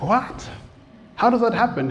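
can't believe what he heard; disbelief. Retold or imitated. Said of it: "I'm like".

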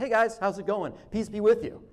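light, offhand hello; casual greeting. Acted. Walking in on the guys, casual greeting. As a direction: toss it out like an everyday greeting. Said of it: "Very almost casual".

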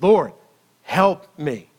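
deliberate, emphatic humble plea, pausing after Lord. Acted. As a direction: plead humbly, giving each part its own weight. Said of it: "not with pride, not with arrogance".

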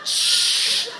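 put-on high, loud, laughing shush to the child; laughing hush. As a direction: half-whisper it, laughing. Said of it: "And I was like".

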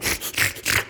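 wordless sucking pump noise; bilge pump imitation. Comic showing listeners how a bilge pump sounds, slurping.

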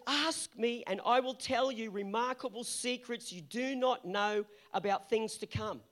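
slow, deliberate scripture reading; slow emphatic verse. Shown as a demonstration. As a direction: read it slowly, weighing each word. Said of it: "it says".

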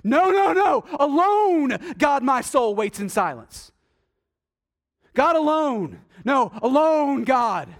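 eager emphatic psalmist; emphatic David. Acted. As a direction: rush back to the point, insisting. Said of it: "racing as fast as he can".

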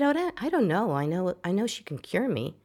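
high, blurted out suddenly; blurted certainty. Retold or imitated. Telling her friend Wayne, blurted and sure. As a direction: it just fell out of her mouth.

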